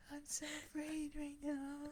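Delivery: hushed, high mock-frightened voice with a gasp; gasp, then act scared under your breath; re-enacted scared whisper into a mic; fearful whisper. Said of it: "I'm whispering into this mic".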